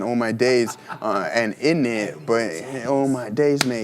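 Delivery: put-on a light stab at English slang in an English accent. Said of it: "English accent".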